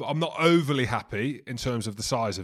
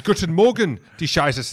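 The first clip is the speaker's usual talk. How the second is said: mock German; 4 semitones higher, 7 dB louder than usual.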